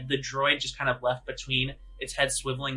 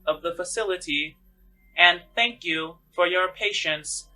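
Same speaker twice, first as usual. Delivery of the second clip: higher, louder, slow announcer voice; PA announcement; 5 semitones higher, 6 dB louder than usual. Acted. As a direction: read it like a station intercom. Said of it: "it says".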